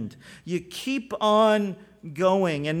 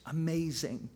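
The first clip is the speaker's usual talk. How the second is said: lightly voiced cheerful friend; upbeat answer; 8 dB quieter than usual. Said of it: "he'll respond by saying something like this".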